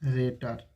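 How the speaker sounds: ऑपरेटर split as "oh ... prator"; correct pronunciation. Shown as a demonstration. Teacher demonstrates for students, ऑपरेटर in two parts. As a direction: break ऑपरेटर after a rounded "o". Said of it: "इसे ऑपरेटर पढ़ा जाता है".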